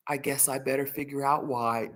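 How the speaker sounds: soft, understated musing; serious deadpan. Retold or imitated. Dad closing his morning joke, serious and soft. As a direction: say it quietly, with a straight face. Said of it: "but it was serious".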